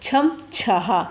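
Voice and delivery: measured recitation in separate syllables; syllable drill. Shown as a demonstration. Teacher shows how matras are pronounced, measured syllable drill. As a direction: sound out each syllable for learners. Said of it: "उच्चारण कैसे हम करते हैं".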